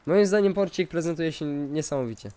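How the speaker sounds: usual speaking voice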